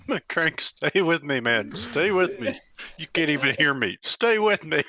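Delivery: urgent plea to a fallen friend; rising panicked pleading; man down shout. Acted. Dragging unconscious friend, pleading.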